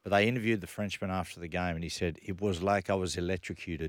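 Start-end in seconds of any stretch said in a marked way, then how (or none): 2.2-3.9 faint mock French accent. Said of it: "That's my French accent".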